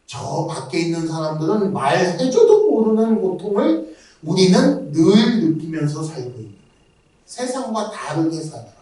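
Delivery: ordinary delivery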